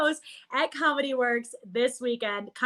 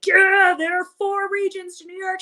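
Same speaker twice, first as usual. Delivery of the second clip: proud Western New Yorker; 9 semitones higher, 4 dB louder than usual. Retold or imitated. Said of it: "stand up and be like".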